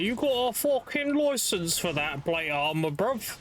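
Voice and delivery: hint of a hammed-up British bobby; mock British copper. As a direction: challenge them like a parody street policeman. Mock British police challenge in street.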